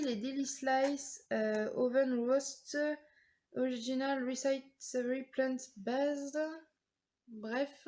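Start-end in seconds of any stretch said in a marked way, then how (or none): 0.0-6.4 slow, careful English accent on the brand names; English accent attempt. Real, not acted. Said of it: "mon accent anglais est pourri". (noms de marque lus lentement avec un accent anglais maladroit)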